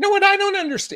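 sudden very high pitch. Complaining about a man who wants to take things slow, voice goes high-pitched. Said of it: "my voice just got high-pitched right there".

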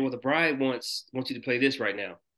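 plain

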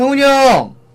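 loud, high, far-carrying shout.

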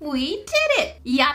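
cartoonish video-game character voice, cheering. Repeating a line a woman just said, Mario-game-style voice. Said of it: "Why did she sound like something from a Mario game?".

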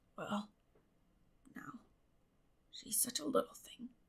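weak, faint voice. Narrator reading a man's reply in an argument about a girl, feeble. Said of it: "feebly reiterated Matthew".

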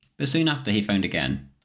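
plain

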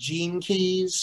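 slow, drawn-out Southern accent on gene keys.

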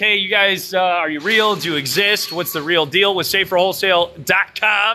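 ordinary talk, nothing marked

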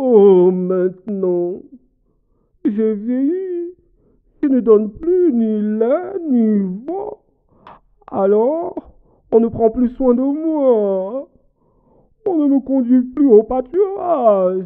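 put-on very high-pitched, weary, worn-out old cow voice. Narrating a tale, the storyteller voices the old cow speaking: old worn-out cow voice.

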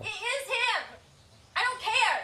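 all-out, shrill, high-pitched screaming outburst. A confrontational cast member on the show, screaming. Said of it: "she says as she's screaming".

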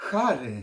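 very loud, high, astonished, delighted gasp. Brenda hears Harry propose on the phone: surprised, delighted gasp. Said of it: "Westchnęła zaskoczona i uradowana".

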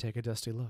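ordinary delivery

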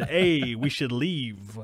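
slow Brooklyn Italian talking-gadget voice. Pitching a device idea to David, voice its warning in a Brooklyn Italian accent. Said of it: "a Brooklyn Italian voice that says".

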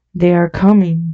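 ordinary delivery

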